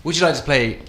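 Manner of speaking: lightly hammed posh British question; posh British accent. Shown as a demonstration. Guest quizzes host about polo, posh British accent. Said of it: "posh like Prince Charles".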